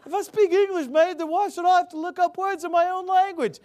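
high, mocking Australian accent; bad Australian accent. Preacher imitating the Australian guy, mocking bad accent. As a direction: put on a poor Aussie accent. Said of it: "I can't do a good Australian accent".

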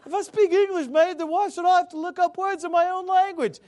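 bad, high Australian accent; badly faked Australian accent, laughing. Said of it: "I can't do a good Australian accent".

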